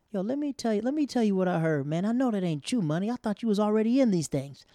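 loud, high, disbelieving holler; imitated teammate ribbing. Teammate hearing a rumor about him, hollering. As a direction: confront him like a rowdy teammate.

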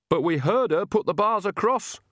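high-pitched dismayed wail; old nanny wailing in dismay. A narrator's reading. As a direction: wail it in protest, pitch well up. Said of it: "wailed Nanny".

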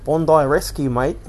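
broad put-on Aussie accent; performed Aussie lifeguard-show accent; Australian accent. Shown as a demonstration. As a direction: lean into a hammy Australian accent. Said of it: "that's how I get into it, is saying".

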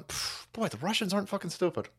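breathy near-whisper, dropped way down; hushed aside. Retold or imitated. Host mimicking himself thinking, hushed under breath. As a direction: mutter it to yourself under the breath.

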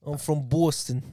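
put-on Boston accent on "Boston"; exaggerated Boston accent. Shown as a demonstration. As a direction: introduce yourself in mock Boston. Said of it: "Boston accents".

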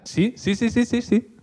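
mock agreement. Mock-eager rapid agreeing.

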